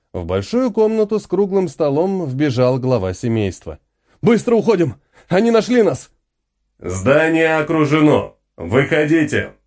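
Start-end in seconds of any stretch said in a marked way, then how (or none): 4.2-6.1 громко и высоко, в панике; крикни семье, что надо бежать; тревожный крик. Acted. Отец вбегает, тревога. 6.8-9.5 медленный металлический голос робота; отчекань приказ, как машина. Acted. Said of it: "Металлический голос".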